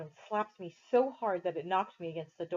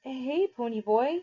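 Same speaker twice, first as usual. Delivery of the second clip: sleepily; 6 semitones higher, slower than usual. A narrator's reading. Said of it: "he said sleepily".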